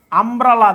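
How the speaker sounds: আমব্রেলা loud, starting on open "ah"; teacher showing the "am" in আমব্রেলা; opening "ah" sound. Shown as a demonstration. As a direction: punch out আমব্রেলা to show its "ah". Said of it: "এই ইউ এর উচ্চারণটা কি?".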